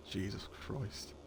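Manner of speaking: slow, low, very soft disbelief; exasperated. Real, not acted. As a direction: mutter it slowly in dismay. Dismay at chat messages.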